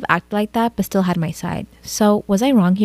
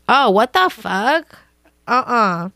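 shocked disbelief; 2 semitones higher, much slower than usual. Real, not acted. Reacting to the brother's insult.

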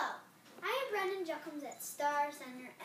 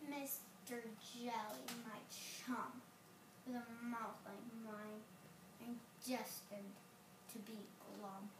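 gloomy pout fish; 2 semitones lower, 5 dB quieter, slower than usual. Acted. Fish answers glumly.

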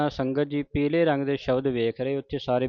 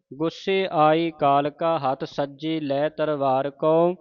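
slow, measured chanting; scripture recitation; slower than usual. Shown as a demonstration. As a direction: recite slowly with pauses.

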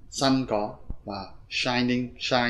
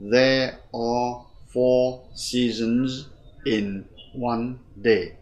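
slow, word-by-word English reading; measured teacher's dictation pace; model reading; much slower than usual. Shown as a demonstration. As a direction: read slowly for learners, pausing between phrases. Reads the lesson text aloud.

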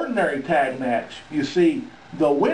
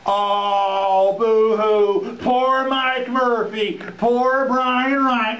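slow, higher, sarcastic pity; mock sympathy; 4 semitones higher, much slower than usual. Manager taunting beaten wrestlers with sarcastic mock pity. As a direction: drag out the fake pity, savoring it.

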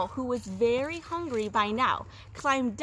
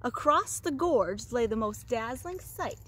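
storyteller lingering on key words; story narration; 2 semitones higher than usual. A narrator's reading. Teacher reads goat tale to second graders, animated storytelling. Reads a picture book to children.

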